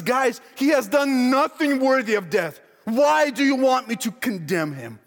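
insistent, exasperated plea; pleading protest. Acted. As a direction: reason urgently with people who won't listen. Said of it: "Pilate stands here and he says".

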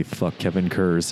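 seductive whisper. Pretend. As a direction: whisper it like a slow come-on. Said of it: "whispering very seductively".

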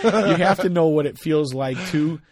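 slow, laughing restart. Real, not acted. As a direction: keep talking while laughing. Still laughing.

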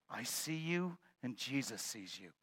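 a hint of a hushed voice in the dark; lightly voiced unseen speaker; mysterious voice. Unseen voice speaks to the burglar, a touch hushed. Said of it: "he hears a voice say".

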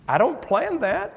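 ordinary delivery

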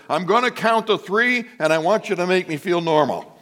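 mild mock desperation; pleading prayer. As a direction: plead upward, laying out terms. Pleading prayer, retold in sermon.

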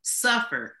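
slow and deliberate. Real, not acted. Guest tells listeners of the women's suffering, slowly and deliberately. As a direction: say it slowly so listeners hear what is meant. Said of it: "I wanted to say it slowly".

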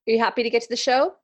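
fast, pushy question; forceful. Real, not acted. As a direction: push them along, fast and insistent. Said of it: "that was very forceful though".

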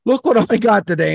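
high-pitched imitation of a boastful hunter; mock proud hunter. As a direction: imitate someone showing off a catch. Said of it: "that one dude every year is like".

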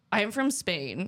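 imitated Spanish accent, understated; thick Spanish accent. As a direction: lightly mimic a Spaniard's accent. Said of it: "like, this really thick accent".

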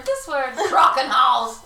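mock harsh German. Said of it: "there's one where they're like".

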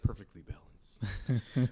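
slow, low Thanos impression; deep and deliberate like Thanos. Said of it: "how's Thanos say it".

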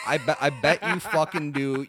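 laughing through the words. Real, not acted. Host laughs teasing cohost about loving the breast. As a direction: chuckle while teasing him.

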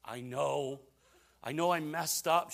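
lightly acted guilty wife; remorseful wife. Wife admits fault to her preacher husband, lightly acted remorse. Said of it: "And she goes".

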